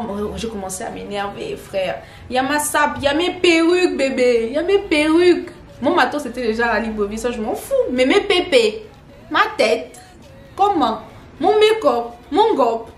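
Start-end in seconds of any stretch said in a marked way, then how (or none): 2.3-12.9 high, loud, panicked listing; frantic worry. Real, not acted. She panics about her missing luggage, high and loud. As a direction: wail about the lost wigs.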